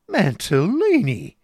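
loud, slow, high rebuke; awful voice. A narrator's reading. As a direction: draw the name out in a dreadful warning cry. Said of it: "exclaimed his wife in an awful voice".

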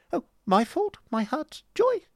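very high, squeaky-high fop; wounded dandy protesting in falsetto; affected protesting husband. Acted.

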